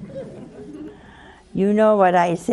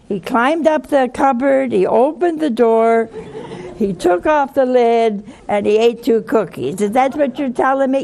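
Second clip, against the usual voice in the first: sarcastic mother; 5 semitones higher, 3 dB louder than usual. Retold or imitated. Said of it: "mother mocks the excuse".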